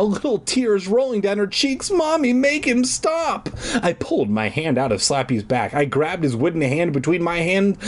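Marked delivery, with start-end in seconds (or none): 1.9-3.5 high, drawn-out mock wail; sobbing child. Sobbing little girl begging her mother, wailing. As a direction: whine slowly to Mommy, pitched way up. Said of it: "the little girl was sobbing now".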